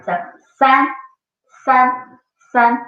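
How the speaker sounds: san, said clearly and held; demonstrated san. Shown as a demonstration. Teacher modelling san for students, clear and deliberate. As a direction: model san for the class to copy. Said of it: "repeat after me".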